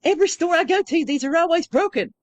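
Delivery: high, loud put-on Eastern European accent; foreign accent. Trucker complaining about broken grinders, in a foreign accent. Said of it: "in the accent".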